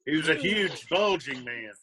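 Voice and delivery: tossed-off quote ending in a shout on "bulging"; quick movie quote. Retold or imitated. Friend blurts a movie line for laughs, punching "bulging". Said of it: "converse in movie quotes".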